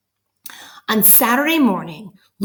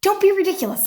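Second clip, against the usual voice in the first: scoffing mother; 13 semitones higher, faster than usual. Acted.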